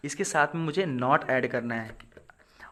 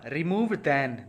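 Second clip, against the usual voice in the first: very slow, dragging out remove than; slow dictation; much slower than usual. Shown as a demonstration. Teacher to class, dictating the rule very slowly. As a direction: read the rule out slowly for copying.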